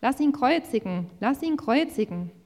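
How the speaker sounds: high, loud repeated demand; crowd shouting. A narrator's reading. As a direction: cry out like an insistent mob. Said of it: "schrien sie".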